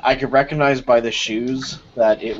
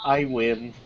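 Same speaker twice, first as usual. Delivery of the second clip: softly voiced private gloat; inner thought; 3 semitones lower, 8 dB quieter than usual. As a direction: drop it low in volume, like a thought to oneself. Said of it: "in my head I'm just thinking".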